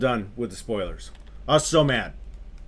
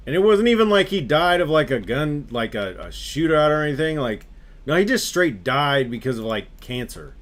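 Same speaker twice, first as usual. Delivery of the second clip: louder and higher, indignant; ranting in disbelief at the ending; worked-up rant; 4 semitones higher, 4 dB louder than usual. Real, not acted. Ranting about the death.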